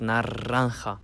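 "Naranja" with a strongly rolled r. Shown as a demonstration. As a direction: slowly, roll the r hard in "Naranja". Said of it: "versuchst, richtig stark das auszusprechen".

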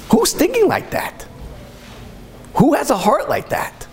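preacher's awed exclamation; impassioned wonder. Real, not acted. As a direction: marvel aloud at such a heart. Rhetorical praise of righteous man.

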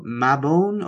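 "Mabon" as MAB-ohn; "Mabon" said MAB-ohn, ending drawn to "own"; near-miss pronunciation. Shown as a demonstration. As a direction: say "Mabon" with short a and long o. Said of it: "at least that's still closer".

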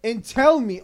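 slow, emphatic scolding; exasperated rant. Real, not acted. New Yorker scolding his friend who doubts him, exasperated. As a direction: spell it out slowly, fed up.

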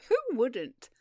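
jovial burst without real laughter; amused exclamation. Acted. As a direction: call it out as if amused. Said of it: "laughed Beau Maturin".

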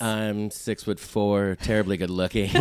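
mock boast. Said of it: "those are total lies".

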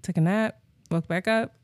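laid-back, unbothered list; mock casual. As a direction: shrug it off as routine. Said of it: "the way he said it was just so casual".

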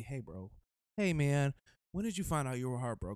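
low-pitched imitation of a friend; Kyle impression. Kyle asking his friend about heartbreak, lightly imitated in a low voice. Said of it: "'Cause Kyle had asked me".

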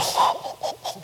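soft, wordless mock gasp of awe; overwhelmed gasp. Joking about rising in heaven, overwhelmed breathy gasp. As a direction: puff out breath as if overcome. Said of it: "we'll start to get up and go".

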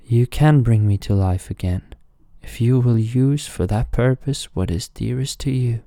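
lightly voiced talking statue; speaking stone. A narrator's reading. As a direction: reveal the grim price.

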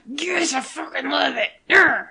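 high, mock-weepy fan squeal; hammed-up choked-up delight; tearful gushing. Fan reliving her rewatch of the episode, tearful gushing.

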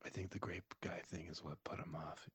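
soft late-night whisper. Real, not acted. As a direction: whisper under your breath. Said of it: "we can't have this guy whispering".

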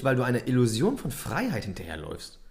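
Illusion picked out with emphasis; stress on Illusion. Real, not acted. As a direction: lean hard on the word Illusion. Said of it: "Betonung liegt auf Illusion".

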